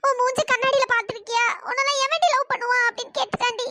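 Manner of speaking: tearful retelling broken by sobs; weepy, choked-up complaint; sobbing. Acted. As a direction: cry while confiding the hurt. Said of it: "தேம்பி தேம்பி அழுகுற".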